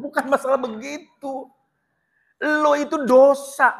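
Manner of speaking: sharp rebuke. Real, not acted. Preacher rebukes.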